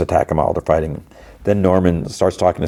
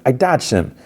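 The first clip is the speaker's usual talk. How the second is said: mock yell; 7 semitones higher than usual. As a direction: call back in a mild retold yell. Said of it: "he yells back to him".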